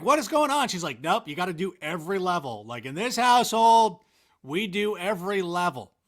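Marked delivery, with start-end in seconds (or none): 0.0-0.7 high, loud retold protest; playfully outraged disbelief; mock bewilderment. Retold kid's protest at game reset. 1.0-5.9 lightly voiced strict mother; a hint of a stern mom; mock parental firmness. Mom's house rule, voiced in story.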